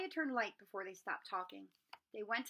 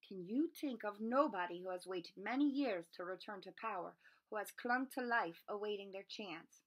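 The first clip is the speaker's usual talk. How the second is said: a wise creature giving a dark warning; solemn centaur. Acted. Centaur Firenze warns Harry about unicorn blood, solemn and grave.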